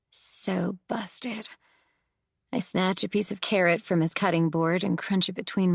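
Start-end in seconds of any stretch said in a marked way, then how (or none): 0.1-1.5 unvoiced whisper under the breath. A narrator's reading. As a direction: breathe it secretly. Narrator repeats under breath.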